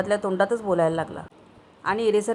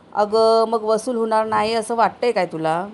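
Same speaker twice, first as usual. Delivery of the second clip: louder burst on अगं, then settling; shouting husband; 4 dB louder than usual. Acted. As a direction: snap at his wife. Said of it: "तोंडाची बचाळीपासून तो ओरडला". (बायकोवर ओरडणारा नवरा, अगं जोरात)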